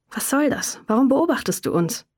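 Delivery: sharp, confrontational questions; snapping at him. Acted. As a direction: demand answers, sharp. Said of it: "fuhr Wie ihn an". (scharf angefahren)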